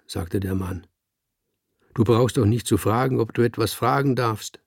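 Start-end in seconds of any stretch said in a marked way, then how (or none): 1.9-4.6 befehlend gönnerisch. Acted. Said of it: "der alte, miese Tonfall ... der befehlend gönnerische".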